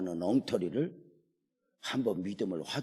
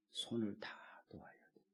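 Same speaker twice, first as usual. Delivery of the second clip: hushed whisper, much softer; 13 dB quieter, faster than usual. Real, not acted. Preacher tells the congregation you must let go, whisper. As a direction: breathe the words out to drive it home. Sermon point dropped to hush.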